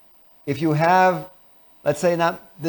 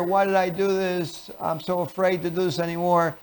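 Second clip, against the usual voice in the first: acted child's fear; 2 semitones higher, 5 dB quieter than usual. Child after a football fall, mildly fearful. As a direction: fret it quietly, drawing out the words. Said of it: "if you get them up into fear".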